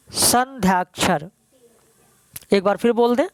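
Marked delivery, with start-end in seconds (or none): 0.1-1.3 "संध्याक्षर" slowly broken into its parts; slow dictation. Shown as a demonstration. Teacher asking the class to write "संध्याक्षर", slow dictation. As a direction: draw out "संध्याक्षर" for note-takers. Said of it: "लिख लीजिए".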